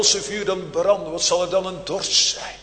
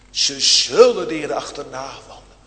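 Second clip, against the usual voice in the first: louder, weighty "Ze zullen de Heere achterna wandelen"; louder proclamation; 6 dB louder than usual. Real, not acted. Preacher repeats promise twice.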